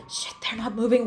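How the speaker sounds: a crying catch in the voice; tearful realisation; breaking into tears. Acted. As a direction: choke up as panic turns to tears. Injured partner not responding.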